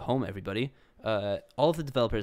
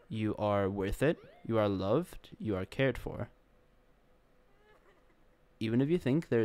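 calm, earnest encouragement to viewers; sincere reassurance. Real, not acted. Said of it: "sincere message to viewers".

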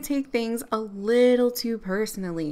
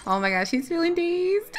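amused squeal; 8 semitones higher than usual. Real, not acted. Sim is dazed.

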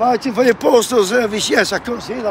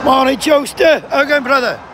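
called-out greeting; 3 semitones higher, 4 dB louder than usual. Real, not acted. Picket host hails a mate arriving, loud call. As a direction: call out heartily to someone passing. Calling a greeting to someone passing.

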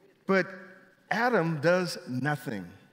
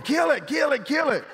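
high, loud panicked mock shriek; imitating wife yelling; 13 semitones higher, 7 dB louder than usual. Preacher imitating his wife Kim shrieking at the snake, high mock panic. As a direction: squeal it like a frightened wife. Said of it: "Kim's going".

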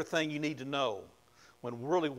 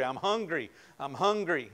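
mock whiny complaint; 3 semitones higher, 4 dB louder than usual. Mimicking hungry people whining.

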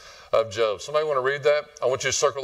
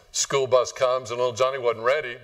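ordinary delivery

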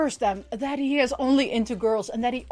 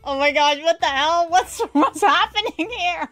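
building shocked outcry; 6 semitones higher, 4 dB louder than usual. Retold or imitated. Shocked reaction to ninja flirting.

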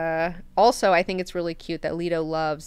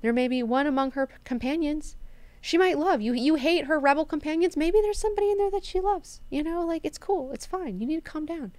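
lofty god-emperor; 9 semitones higher than usual. Retold or imitated. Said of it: "Leto tells him".

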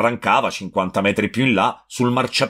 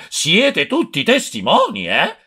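higher still and slow, testimoni drawn out and falling; louder hypocritical yell; 9 semitones higher than usual. A narrator's reading. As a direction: hammer it home to the crowd, slow on testimoni. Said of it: "cominciò a urlare". (urlo più insistente e lento, testimoni allungato)

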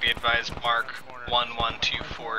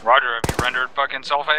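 urgent shout; 8 dB louder than usual. Real, not acted. Urgent order over radio.

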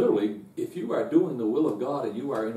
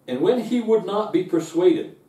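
emphatic reading; 6 semitones higher, 6 dB louder than usual. Acted. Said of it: "it says this".

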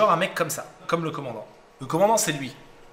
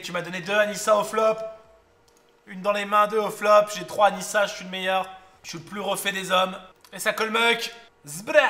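rising thrill at a lucky flop; hyped; 6 semitones higher than usual. Real, not acted. Streamer hyping his lucky flop to viewers, excited. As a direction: voice pitched up with poker excitement.

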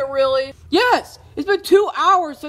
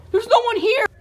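exasperated shout; 9 semitones higher than usual. Acted.

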